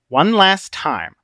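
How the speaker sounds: drawn-out threat; Obstinate, slow warning. Acted. Obstinate giving Christian a last chance, menacing. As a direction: stretch each word as a final warning.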